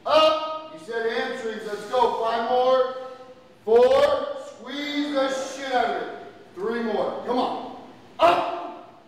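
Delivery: energetic coach calling out reps; counting workout reps. Real, not acted. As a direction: drive each rep with your voice.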